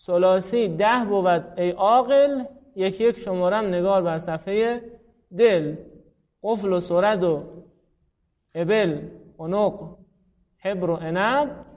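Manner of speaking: measured verse reading, word by word; mnemonic verse recitation. Shown as a demonstration. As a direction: recite the rhyme as a grammar list.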